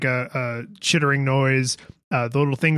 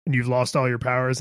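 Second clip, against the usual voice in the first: normal talking voice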